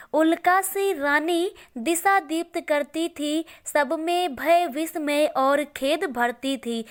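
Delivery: slow, deliberate verse reading; poem recitation. Acted. Teacher reciting the verse on the meteor-like queen, slow recitation. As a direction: let the couplet unfold word by word.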